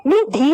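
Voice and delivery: निधि slowly, as nee-dhee; wrong long vowels. Shown as a demonstration. Teacher rejecting the wrong form, निधि drawn out long. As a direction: stretch both vowels of निधि. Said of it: "बड़ी ई की मात्रा नहीं लगेगी".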